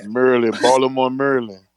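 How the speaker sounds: "Maryland" as "Merlin", "Baltimore" as "Bal-m-ah"; Baltimore accent. Shown as a demonstration. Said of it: "Say, say Baltimore".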